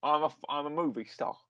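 square-jawed actor impression, lightly done; Michael Caine. Podcaster improvises the actor refusing puppets, lightly impersonated. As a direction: lightly mimic a London film star. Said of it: "summon your Michael Caine impression".

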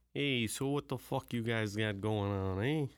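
lightly put-on Italian-American wiseguy accent; stereotyped Italian accent. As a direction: greet the guys in a mock Italian accent. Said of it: "can do an Italian accent".

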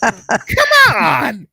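high, loud cry of disbelief; exasperated protest. Acted. Protesting a sudden British accent in a movie, exasperated. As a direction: call it out in mock outrage.

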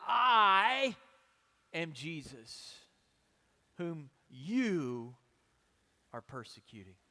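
big loud I, then the rest sinking to a hush; emphatic. A narrator's reading. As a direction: stress the I hard, let the name fall away. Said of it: "it's emphatic in the Greek language".

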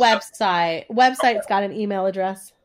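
blocked nose, congested voice; stuffy nose. Real, not acted. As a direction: talk through a head cold. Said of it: "sorry I sound so stuffy".

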